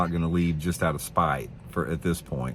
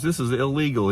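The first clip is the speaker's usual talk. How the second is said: high-pitched mock scold of a pushy dock owner; bossy loudmouth; 7 semitones higher than usual. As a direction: squeal it like an indignant busybody. Aggressive dock owner yelling.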